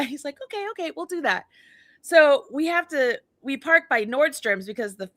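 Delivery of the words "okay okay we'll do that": quick, high, soft imitation of husband; careful politeness. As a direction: agree fast so as not to poke the bear. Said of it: "he's talking just like this. Very polite".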